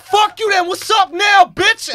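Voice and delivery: high, loud acted-out taunt; retold angry shout. Friend challenging the bouncer to a fight, mock shouting. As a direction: yell the challenge, retelling it.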